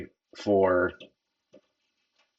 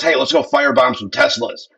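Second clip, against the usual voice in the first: higher and louder, mocking the group; mocking quote; 8 semitones higher, 5 dB louder than usual. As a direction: ham up the firebomb plan. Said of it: "this group goes".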